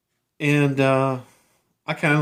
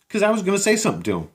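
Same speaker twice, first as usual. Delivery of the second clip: fired-up indignation; 10 semitones higher, faster than usual. Real, not acted. Building indignation in retold story.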